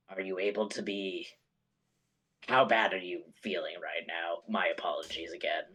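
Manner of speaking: soft apologetic whisper. Acted. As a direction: whisper gently to the wounded. Player softly asks hurt plant.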